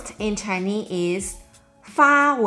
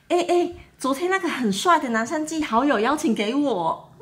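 excited gossip; 5 semitones higher, faster than usual. Pretend. Acted gossipy example sentence.

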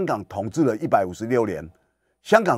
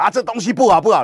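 higher, louder fussy griping; mock picky customer; 9 semitones higher, 4 dB louder, faster than usual. Haggling shopper griping at the shopkeeper, mock whine. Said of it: "你还一路骂".

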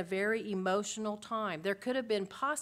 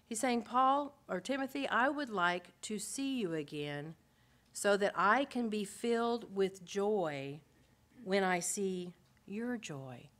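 tender longing as Paul. Acted. Voicing Paul to Timothy.

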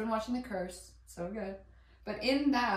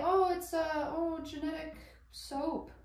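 mock know-it-all, pitched up and drawn out; mocking high voice; 7 semitones higher than usual. Mocking cilantro haters in a high, drawn-out voice. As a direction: parody the people who claim cilantro tastes like soap. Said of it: "people say".

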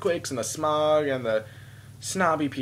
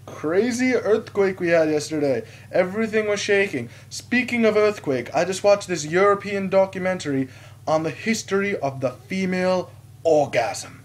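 chatty stranger; 7 semitones higher, 4 dB louder than usual. Retold or imitated. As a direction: imitate an over-eager talker, pitched up. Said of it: "then he's like".

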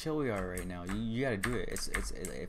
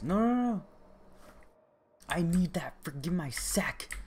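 high, raised urgent cries; panicked protest; 8 semitones higher, 3 dB louder than usual. Real, not acted. Player losing the sack in game, high panicked protest. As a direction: plead loudly to get it back.

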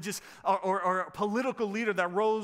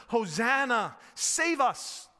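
raised, forceful cry of praise and plea; crowd's shout; 2 semitones higher, 4 dB louder, slower than usual. Acted. Preacher quoting the crowd at Jesus, shouting. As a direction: call out over a crowd, lifted and strong. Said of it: "shouted at Jesus".

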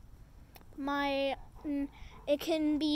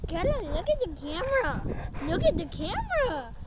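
coaxing call; 6 dB louder than usual. Real, not acted. Calling to the baby to look at the camera, loudly coaxing. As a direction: call out to get her to look.

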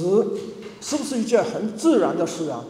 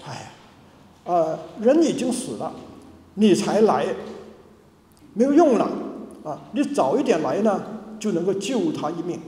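mild complaint. Retold or imitated. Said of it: "他们有点埋怨".

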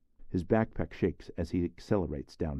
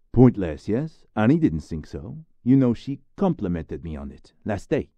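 louder, higher, "Pointless" thrown back hard and loud; defiant retort; 4 semitones higher, 8 dB louder than usual. Acted. Retort echoing the insult.

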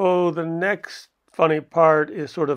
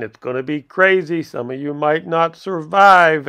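louder, mock-pumped director warning the cast; hyped director pep talk; 2 semitones higher, 5 dB louder than usual. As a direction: play the reckless director firing up the actors. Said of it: "So he says".

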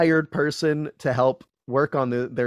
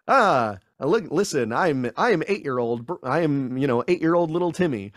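mock kid voice; 2 semitones higher than usual. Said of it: "So you're also not going".

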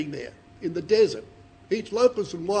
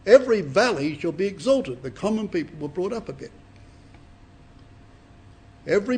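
emphatic scripture. Shown as a demonstration. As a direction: proclaim each line as fulfilled. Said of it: "when you look at them like this".

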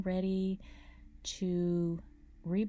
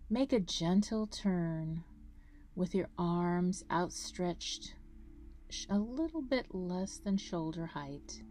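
guided meditation. Acted. Guide leading listeners through a grounding breathing meditation, calm meditation voice. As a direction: guide them through each breath, unhurried, drawing out key words.

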